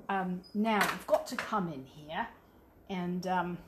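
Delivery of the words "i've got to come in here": British accent. Shown as a demonstration. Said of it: "I'm trying to get".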